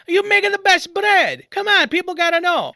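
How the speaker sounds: emphatic, exasperated praise; insistent urging. Retold or imitated. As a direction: egg a modest friend on. Urging reluctant baker onto his show.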